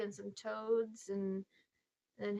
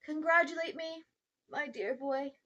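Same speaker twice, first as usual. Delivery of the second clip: gloating uncle; 5 semitones higher, 6 dB louder than usual. Acted. Uncle exults over his experiment.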